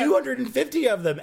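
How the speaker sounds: high laughing voice. Real, not acted. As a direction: laughs through the words. Laughing while answering.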